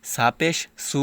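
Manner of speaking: সা with a hard plain s, like সিন; wrong pronunciation. Shown as a demonstration. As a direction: say সা পেশ সু with an ordinary hissed s. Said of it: "ভুল হচ্ছে উচ্চারণটা".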